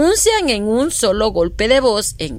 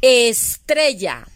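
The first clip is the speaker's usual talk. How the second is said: estrella said slowly and clearly; slow example; slower than usual. Shown as a demonstration. Teacher giving pupils estrella slowly. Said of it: "Inicia con la sílaba es".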